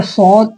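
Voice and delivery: "सौद" with a heavy s and rounded aw; thick Saad. Shown as a demonstration. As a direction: say "सौद" full and thick, vowel held. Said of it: "इसको मोटा पढ़ना है".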